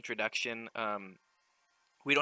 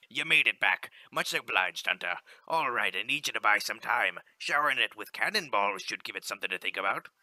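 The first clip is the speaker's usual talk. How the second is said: louder, hearty sea captain reading the in-game lines; ship captain; 4 dB louder than usual. Acted. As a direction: call it out like a captain on deck. Captain gives orders.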